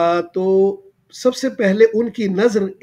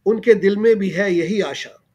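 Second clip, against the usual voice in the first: measured poetry recital with lifted phrase ends; mushaira-style verse delivery; verse recitation. Acted. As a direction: recite the couplets line by line, pausing for appreciation. Host recites his verse.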